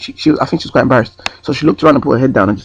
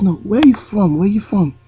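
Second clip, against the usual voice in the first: higher, insistent question in a put-on European accent; 8 semitones higher, slower than usual. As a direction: press him again in a mock Eastern European accent. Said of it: "try and do an accent".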